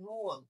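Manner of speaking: রুয়াল opening on R; R-initial pronunciation. Shown as a demonstration. Teacher replaces ওয়াল for students, R-initial রুয়াল. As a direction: start রুয়াল with R in place of a bare W glide. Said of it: "তখন উচ্চারণ হবে".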